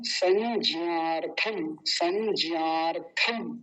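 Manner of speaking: संज्ञार्थम said slowly, syllable by syllable; careful pronunciation. Shown as a demonstration. Teacher models the full word संज्ञार्थम slowly. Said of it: "तो पूरा शब्द हमारा क्या बना".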